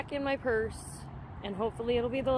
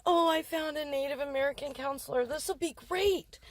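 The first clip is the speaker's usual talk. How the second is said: higher, quick hopeful thought, rising at the end; retold hopeful excitement; 3 semitones higher than usual. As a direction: replay an excited realization. Retold hopeful thought on finding counselor.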